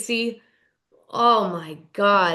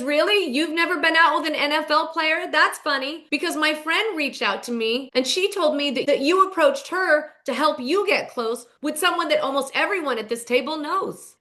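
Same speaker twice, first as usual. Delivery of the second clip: higher, mock-disbelieving confrontation; retold challenge, pitched up; pointed callout; 5 semitones higher than usual. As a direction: act out a knowing takedown. Ashley calls Stacy out.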